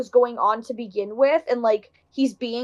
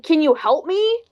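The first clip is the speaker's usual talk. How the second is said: slightly puzzled request, rising at the end; mild mock plea, lifted into a question; imitated confused plea; 4 semitones higher, 3 dB louder than usual. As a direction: imitate a bewildered appeal for help. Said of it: "she kinda said it like that".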